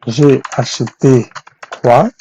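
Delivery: slow, spaced-out "J'ai acheté quoi"; slow model question. Shown as a demonstration. Teacher showing which question to ask, slowly. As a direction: set "quoi" apart after a short pause.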